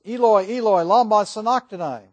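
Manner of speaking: loud, high anguished cry. Acted. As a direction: cry it out to heaven. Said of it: "cried out in a loud voice".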